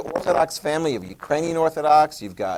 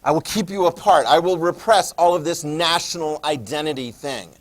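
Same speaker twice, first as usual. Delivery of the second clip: loud, high, commanding ruler; a strongman forbidding any fighting; stern dictator Tito; 3 semitones higher, 6 dB louder than usual. Retold or imitated. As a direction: lay down the law to squabbling nations. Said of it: "He's like".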